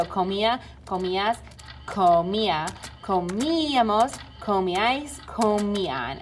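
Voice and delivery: each í in comía, comíamos, comían stressed and drawn out; teacher's slow drill, leaning on the í of comíamos. Shown as a demonstration. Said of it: "they all have accents on the I".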